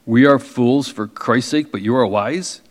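ironic lilt, rising on ARE; mock the Corinthians with a sarcastic sing-song. Shown as a demonstration. Preacher showing how Paul said it sarcastically. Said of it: "He probably said it more like".

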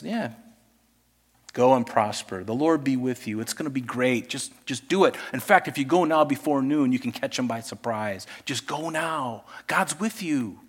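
sarcastically egging the king on; jesting. Retold or imitated. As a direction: prophet Micaiah mockingly telling the king to go to war. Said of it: "He was jesting".

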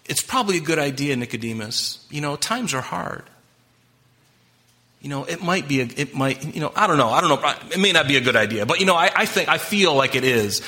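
hesitant, hedging mock suggestion; wishy-washy. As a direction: waffle like someone afraid to commit. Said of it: "it's not a question like".

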